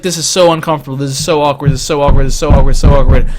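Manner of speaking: low, building mantra of awkwardness; anxious repetition. Retold or imitated. Friend frets, repeating herself.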